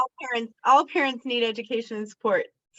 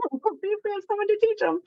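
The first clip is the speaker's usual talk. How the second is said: laughing; 13 semitones higher, faster than usual. Real, not acted. Laughing at own joke.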